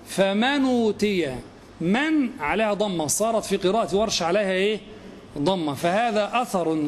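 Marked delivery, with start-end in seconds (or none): 0.1-1.4 slow "فمن أوتي" with damma carried onto the nun: famanu-tiya; Warsh reading. Shown as a demonstration. Teacher slowly demonstrates Warsh's "فمن أوتي" to students. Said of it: "يقول".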